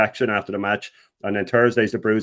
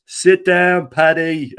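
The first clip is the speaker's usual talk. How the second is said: higher, louder shouted call from the crowd; retold shout; 7 semitones higher, 5 dB louder, much slower than usual. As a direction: yell it across the stands. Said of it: "All you heard was".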